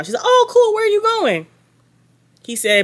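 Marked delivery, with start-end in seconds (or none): 0.2-1.5 much higher, louder girly mock voice; mocking Brittany. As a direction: ham up a sugary fake-sweet girl. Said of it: "I cannot stop mocking this girl".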